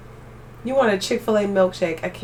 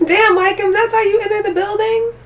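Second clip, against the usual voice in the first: high, loud laughing disbelief; laughing shriek; 10 semitones higher, 5 dB louder than usual. Real, not acted. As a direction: crack up at their entrance. Reacting to a viewer's entrance.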